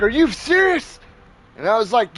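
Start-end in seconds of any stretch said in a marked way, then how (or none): 0.0-1.0 high-pitched incredulous question; mock disbelief. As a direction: imitate the startled neighbor. Mimics startled neighbour's disbelief.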